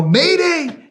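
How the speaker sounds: high, loud distress yell; alarm shout. Retold or imitated. Comms guy yells an alarm to the team, high and loud. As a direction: cry mayday at full force.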